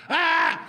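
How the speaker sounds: high, loud yelp of pain; a sudden cry as a stranger's wrist gets grabbed; retold yelp of pain. Retelling a stranger grabbed by the wrist, loud high yelp.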